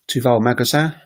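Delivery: "Tu vas au magasin" rising on "magasin"; French question intonation. Shown as a demonstration. Teacher comparing French questions with English, "Tu vas au magasin" rising at the end. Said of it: "part of the sentence that goes up".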